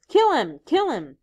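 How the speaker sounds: loud, high, wild chant; frenzied shout. Acted. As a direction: yell it caught up in frenzy. Ralph carried away by excitement.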